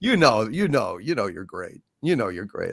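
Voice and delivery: dropping to a soft hush; soft reassuring. Real, not acted. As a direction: reassure him quietly.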